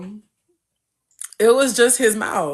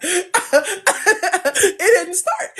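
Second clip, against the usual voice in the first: drawn out; 9 semitones higher, much slower than usual. Real, not acted. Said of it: "repeats for emphasis".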